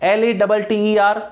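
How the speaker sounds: एल ए डबल टी ई आर spelled letter by letter, slowly. Shown as a demonstration. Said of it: "आपको exam में पूछा जा सकता है". (धीरे-धीरे स्पेलिंग बोलना)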